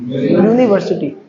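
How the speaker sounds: यूनिवर्सिटी drawn out slowly from an initial "yoo"; demonstrated YOO sound. Shown as a demonstration. Teacher asks students what sound comes, slow यूनिवर्सिटी with a "yoo" start. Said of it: "जब बोलेंगे तो कैसे sound आएगा".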